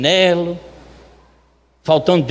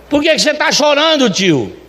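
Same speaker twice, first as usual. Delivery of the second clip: higher imitated helper, dropping on the last word; insistent questioning; 6 semitones higher than usual. Luiz asks the owner why he's crying, insistently. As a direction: press the question in a raised pitch.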